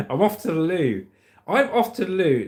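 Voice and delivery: put-on playful English accent; hammed-up English accent. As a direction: put on a jokey posh English voice. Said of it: "Gotta say it in an English accent".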